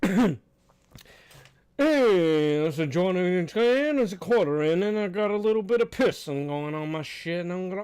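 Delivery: badly faked Midwestern accent, drunkenly stretching the words; drunk Midwestern accent. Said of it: "this dude probably got really drunk".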